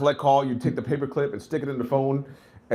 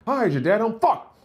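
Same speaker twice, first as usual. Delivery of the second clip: dismayed curse; 7 semitones higher, 3 dB louder than usual. Retold or imitated. Girlfriend's dad answers.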